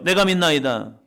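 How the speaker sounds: preacher calling out the verse for all to repeat; loud confession. Shown as a demonstration. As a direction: lead the congregation in the cry. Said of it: "옆 사람 보시면서요".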